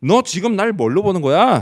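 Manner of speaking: sharp, cutting, loud, high-pitched snapping delivery. Imagining how an ordinary person would retort, acting out a snapping retort. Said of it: "막 쏘아붙였을 거예요".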